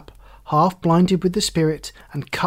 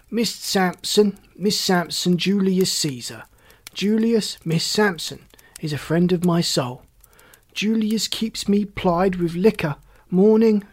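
put-on drunken, boisterous Beckwith; 4 semitones higher than usual. Drunkard praising his supplier to a visitor, boisterous. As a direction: play a staggering drunk, effusively holding forth.

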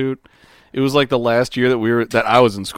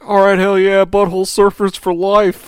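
mock excited cheer; 8 semitones higher, 5 dB louder than usual.

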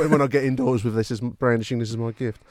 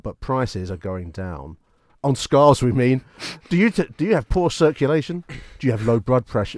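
hammed-up movie trailer announcer; cinema advert voice; 3 dB louder than usual. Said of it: "cinema advert voice on for you".

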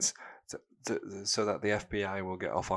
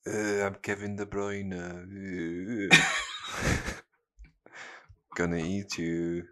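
lightly voiced Belgian zombie groan; a hint of a dim zombie footballer; slower than usual. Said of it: "give me an impression of a, of a Belgian zombie".

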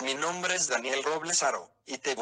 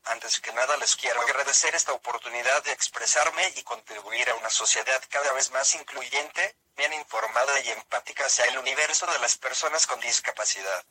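text-to-speech voice, even and mechanical; synthesized voice; 5 dB louder than usual. Real, not acted. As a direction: speak like a computer speech synthesizer. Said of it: "esta es una voz sintetizada".

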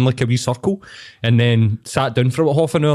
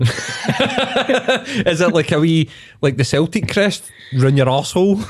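laughing through the question, rising to a high shout; can barely get the words out for laughing; 5 semitones higher, slower than usual. Real, not acted. Teasing his mate about the arse tattoo, through helpless laughter.

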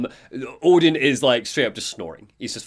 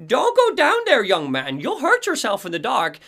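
very high, urgent warning voice; Cynthia Weaver, startled; 11 semitones higher than usual. Acted. Startled lantern woman warning Alan off the dark hallway, high and urgent. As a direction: cry it out high, like a jumpy woman. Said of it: "She jumps, seeing Alan, and is like".

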